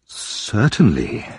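slow, polite reply. Acted. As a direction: answer politely, slowly. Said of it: "very politely".

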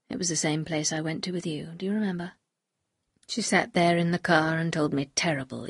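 a hint of a grave man confessing; Maxim confessing.

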